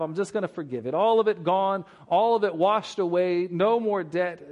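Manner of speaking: a preacher voicing a magnanimous king, rising with joy; generous king. King generously forgives the whole debt.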